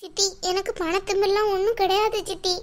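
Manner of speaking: tearful protest. Acted. Crying woman defends herself to her aunt, tearful protest. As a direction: plead your innocence through tears. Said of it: "எதுக்கு இப்ப நீ அழுவுற?".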